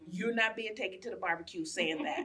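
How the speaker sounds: laughing warning. Retold or imitated. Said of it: "let my white fiance know".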